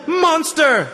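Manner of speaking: loud high insult; girl screaming at the stingy broker; angry child shout. Acted. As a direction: hurl it at him like a furious kid. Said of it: "started getting worked up".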